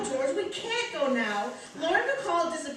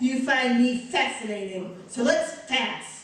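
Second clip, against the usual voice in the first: Lauren Bacall. Acted. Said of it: "now she wants to be Lauren Bacall".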